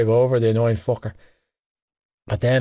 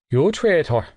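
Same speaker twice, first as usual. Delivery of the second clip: choked out; 4 semitones higher than usual. Acted. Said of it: "he choked out".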